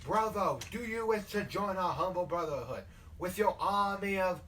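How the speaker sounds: southern preacher's formal invitation. Acted. Leader asking a recruit to join the brotherhood, southern preaching. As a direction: invite him into the fold, southern-style. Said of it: "a southern creature from how he starts talking".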